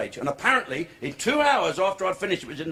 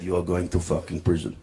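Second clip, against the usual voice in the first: put-on very low, menacing Arab-accented voice; 12 semitones lower than usual. Arab threatens driver who hit his Bentley, deep Arab accent. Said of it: "And the Arab said".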